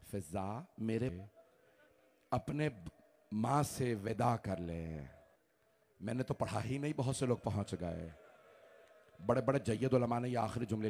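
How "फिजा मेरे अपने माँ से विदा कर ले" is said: hushed grieving call. Acted. Maula softly calling Fizza.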